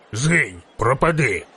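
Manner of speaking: mild acted cry of banishment; priest's cry. A narrator's reading. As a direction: cast out a demon, at ordinary volume. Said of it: "закричав жрець". (стриманий вигук жерця)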